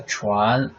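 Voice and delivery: 船 with a rising pitch; second tone. Shown as a demonstration. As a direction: lift 船 from start to end. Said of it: "second tone".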